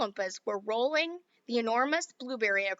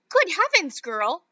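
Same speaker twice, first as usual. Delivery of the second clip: high, loud shriek of alarm; a mother shrieking in shock; 5 semitones higher, 8 dB louder, slower than usual. Acted. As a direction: shriek it at the girl. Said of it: "shrieked Missus Beauregard suddenly".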